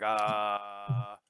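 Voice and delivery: long, level, drawn-out "uhhh"; mock a stunned, lost-for-words "uh"; imitated dumbstruck drone; shocked "uh". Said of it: "he was, he was shocked".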